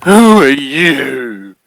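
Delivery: loud, high, drawn-out monster challenge; menacing, needy bear voice; possessive bear. Acted. GM plays possessive bear confronting heroes.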